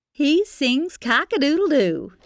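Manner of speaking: ordinary delivery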